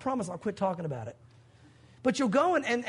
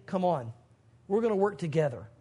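a lower, gentle invitation; 5 semitones lower than usual. Acted. God inviting the believer along, gentle and low.

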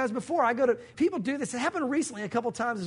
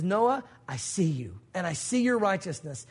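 low, slow tender reassurance; 4 semitones lower than usual. Acted. God answering Noah's plea, low tender reassurance. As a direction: reassure him gently.

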